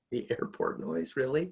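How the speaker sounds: breathy disbelief, rising to a high "really"; incredulous. Retold or imitated. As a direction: scoff at the idea. Mocking the realtor's warning.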